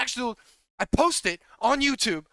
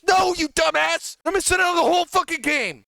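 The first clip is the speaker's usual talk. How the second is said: furious yell; 6 semitones higher, 5 dB louder than usual. Real, not acted. Coach raging at arrogant teammates, furious yell. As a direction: spit it out with contempt.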